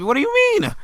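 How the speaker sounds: high, loud scream of disbelief; infuriated shout. Real, not acted. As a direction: yell it, fully fed up. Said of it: "it just infuriates me".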